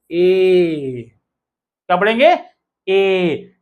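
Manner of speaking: ए as one long, held vowel; pronunciation demo. Shown as a demonstration. Teacher showing learners how AI is read, long drawn-out ए. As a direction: stretch ए out for the learners. ये उच्चारण जब भी.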